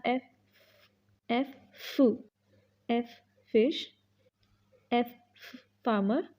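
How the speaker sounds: फ as a breathy short f; f sound demo. Shown as a demonstration. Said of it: "फा नहीं होता".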